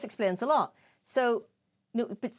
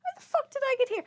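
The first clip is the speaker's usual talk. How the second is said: retold disbelief; faster than usual. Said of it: "I went".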